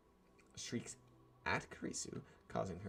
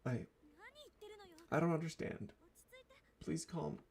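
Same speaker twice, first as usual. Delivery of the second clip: pleading in alarm; 10 semitones higher, 4 dB louder than usual. Acted. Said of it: "I am calm".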